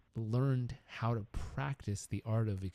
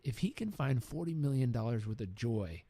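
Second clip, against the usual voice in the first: gracious blessing; slower than usual. Retold or imitated. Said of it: "And he said".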